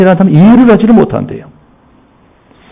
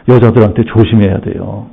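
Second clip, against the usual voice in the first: ordinary talk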